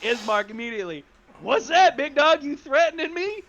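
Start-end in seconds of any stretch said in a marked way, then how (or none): 1.4-3.4 high, loud confrontational questions; aggressive challenge. Acted. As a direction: confront someone who just threatened you. Character takes reply as a threat.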